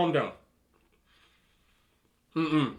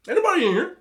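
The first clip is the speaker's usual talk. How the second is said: mock angry ex; 14 semitones higher, 3 dB louder, faster than usual. Ex shouting through door.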